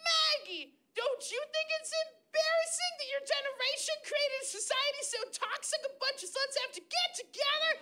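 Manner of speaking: mock rant. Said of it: "I was like".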